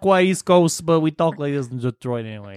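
hammed-up Detroit local accent. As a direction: put on a broad, not-quite-East-Coast Detroit accent. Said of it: "Is that how Detroit people sound?".

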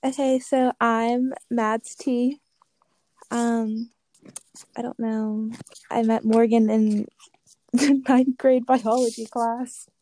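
drowsy, slow and sleepy; half asleep. Real, not acted. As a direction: talk like you just woke up. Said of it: "I'm currently laying here half asleep".

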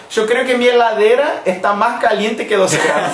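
chuckling through the joke; amused, laughing as she speaks; laughing joke about the heater. Real, not acted. Joking about cold heater.

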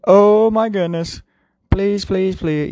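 high, slow frantic plea; panicked pleading. Retold or imitated. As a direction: beg in mock panic. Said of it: "it's like".

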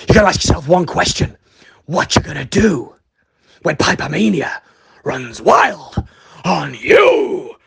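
wrestler promo voice. Acted.

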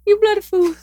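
very high-pitched imitation duck voice; talking duck impression. Shown as a demonstration. Host imitates the recorded talking duck for co-host, high duck voice. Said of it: "let me see if I can imitate".

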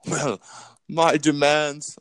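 put-on slow, drawn-out "my demands" in a fading villain accent; half-held smug villain voice; Dr. Evil. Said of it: "I lost this accent".

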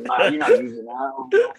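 lightly put-on high, slow mom voice; a mom shutting it down, slowly and high; stern mom voice. Mom quoted refusing.

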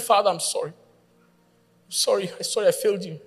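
tearful. Retold or imitated. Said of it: "with tears in my eyes".

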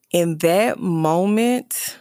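slow, breathy hushed whisper; a hushed, slow whisper in that moment; real whisper. Real, not acted. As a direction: let the words fall to a whisper as the memory hits. Emotional recollection, voice drops.

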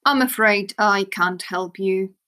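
wizard. Acted. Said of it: "said the wizard".

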